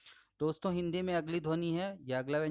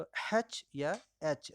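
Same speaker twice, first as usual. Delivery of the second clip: slow demo; much slower than usual. Shown as a demonstration. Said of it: "हैच पढ़ते हैं इसको".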